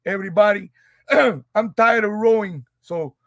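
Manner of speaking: put-on Cuban accent. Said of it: "What happened to the Cuban accent?".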